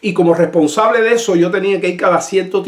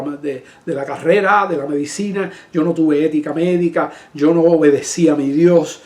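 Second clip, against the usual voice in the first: humble apology; 3 semitones lower than usual. Retold or imitated. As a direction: ask forgiveness gently, head bowed in voice. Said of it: "Así, así le dije".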